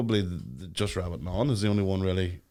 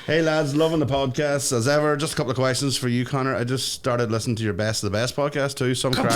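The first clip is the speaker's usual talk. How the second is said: raised, projected message read-out; 5 semitones higher, 4 dB louder than usual. Acted. Host reads a fan message to co-hosts, reading out.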